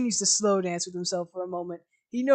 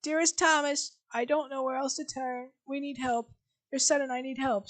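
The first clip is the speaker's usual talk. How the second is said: higher, soft pleading read; mother's letter voice; 4 semitones higher, 4 dB quieter than usual. Acted. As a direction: plead gently in her voice. Reading mother's letter aloud.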